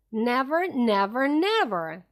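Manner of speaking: loud insistent repeated cry. Acted. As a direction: hammer each never home. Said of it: "cried Bogies".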